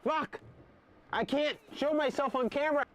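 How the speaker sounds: high strained pre-sneeze voice; fighting off a sneeze; about to sneeze. Real, not acted. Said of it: "I have to sneeze".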